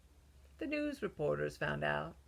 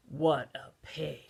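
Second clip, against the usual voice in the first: offended; 4 semitones lower than usual. Acted. Wolf offended by refusal.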